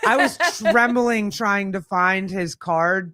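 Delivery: slow words with a laugh in them. Real, not acted. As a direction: giggle through the memory. Laughing about meeting her idol.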